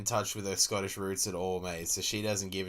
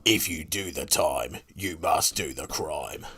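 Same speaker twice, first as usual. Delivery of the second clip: ad voice; 5 semitones lower, 4 dB louder than usual. Pretend. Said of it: "I gotta do less gravelly".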